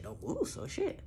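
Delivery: high mock quote. Quoting Tommy's order.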